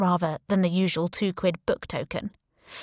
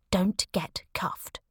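slow, breathless whisper of warning; whispered warning from a voice inside; inner voice whisper; much slower than usual. Acted. Inner voice warning her not to be arrested, slow whisper.

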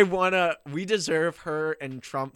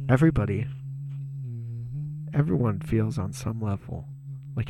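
mock meditative reading. Reading tweets, wants ambient music.

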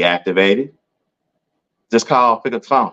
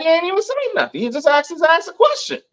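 very high, indignant employee voice; mock outraged employee; faster than usual. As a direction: squeal it like it's unbelievable.

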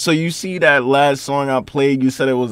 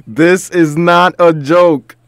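dead serious; 5 semitones higher, 7 dB louder, much slower than usual. Real, not acted. Warning listeners about the virus.

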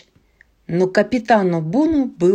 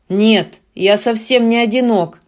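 louder roaring giant; 4 dB louder than usual. Acted. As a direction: roar the denial. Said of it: "взревел он".

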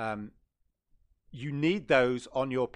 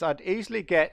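put-on Swedish accent; 5 semitones higher, 4 dB louder than usual. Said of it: "I tried to do a bit of a Swedish accent".

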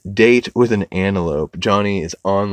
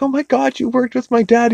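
high-pitched imitation of a gushing girl; hammed-up delighted squeal; mock excited greeting. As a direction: gush it in a raised cartoon voice. Retold antelope greeting an acquaintance.

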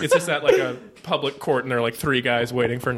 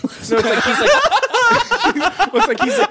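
high-pitched giggling through words; cracking up mid-sentence; laughing; 6 dB louder than usual. Real, not acted. Laughing while describing Smiley.

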